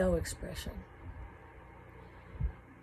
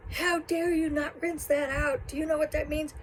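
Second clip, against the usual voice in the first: furious grandma; 8 semitones higher than usual. Retold or imitated. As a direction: scold the child like a raging grandmother. Grandma scolding child over can.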